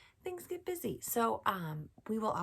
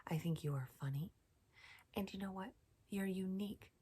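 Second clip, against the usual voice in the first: soft, tender affirmations; 6 dB quieter than usual. Acted. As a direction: reassure each child gently.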